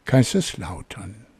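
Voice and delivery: measured poem reading with long pauses; poem recitation. Acted. Podcast host reads listeners a poem to guess, measured recitation. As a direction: recite it line by line, letting each phrase land.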